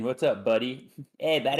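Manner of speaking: put-on a playful Canadian accent calling out to a friend; mock Canadian accent. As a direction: greet like a jokey Canadian buddy. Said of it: "I'm Canadian".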